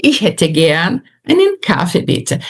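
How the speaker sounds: "Ich hätte gern einen Kaffee, bitte" said lightly and connected; lighter pronunciation. Shown as a demonstration. Teacher returning to the initial phrase, light delivery. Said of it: "Você percebe como fica mais leve?".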